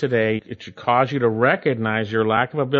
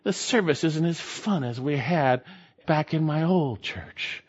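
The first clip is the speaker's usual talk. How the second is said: mock complainer; 6 dB quieter than usual. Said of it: "grumble because they didn't have food".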